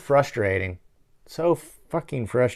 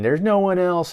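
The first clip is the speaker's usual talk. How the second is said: mild mock yell, higher and louder; a hammed-up mock scream of despair; retold scream; 9 semitones higher, 6 dB louder than usual. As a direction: shout it like the hero raging.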